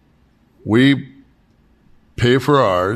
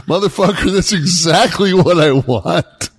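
high, loud, slowing outburst at the passenger; retold yell; 8 semitones higher, 5 dB louder than usual. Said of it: "I said".

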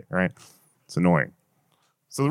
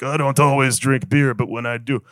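Dos Equis guy. Retold or imitated. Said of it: "old fucking weird guy's like".

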